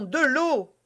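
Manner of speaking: desperate cry for water. Acted. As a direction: shout for water urgently. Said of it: "criait D'Artagnan".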